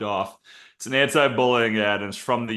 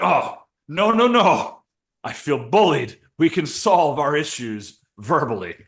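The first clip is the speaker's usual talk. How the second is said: mock pleading fighter; 4 semitones higher, 3 dB louder, slower than usual. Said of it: "And he's like".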